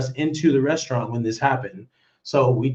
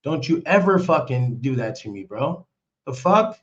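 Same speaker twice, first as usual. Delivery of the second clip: retold confrontation. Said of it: "I said".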